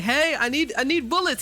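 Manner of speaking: hammed-up tearful whine for bullets; mock crying plea. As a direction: whimper like a cartoon crybaby begging. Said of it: "he's crying".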